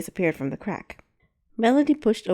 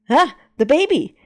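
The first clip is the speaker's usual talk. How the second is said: alarmed shout; 7 semitones higher, 9 dB louder than usual. Acted.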